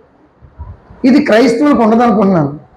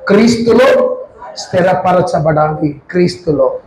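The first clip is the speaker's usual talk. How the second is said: క్రీస్తులో స్థిరపరచబడాలి said slowly, word by word, for note-taking; పెద్దవాళ్ళు రాసుకోవడానికి నెమ్మదిగా చెప్పడం; slow dictation; 5 semitones lower than usual. Shown as a demonstration. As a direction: dictate it slowly so they can write it down. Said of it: "రాసుకోండి".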